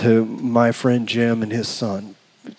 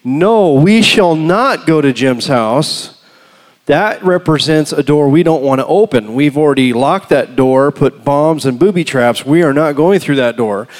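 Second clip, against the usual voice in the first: unforgiving refusal; 3 dB louder than usual. Acted. Preacher voicing the unforgiveness within him, defiantly refusing. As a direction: lay down the law, punching key words. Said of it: "the unforgiveness within me was saying".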